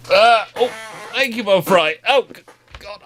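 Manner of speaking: high, sweet surprised cooing at the dog; pet talk. Real, not acted. Owner startled by his poodle, high coo.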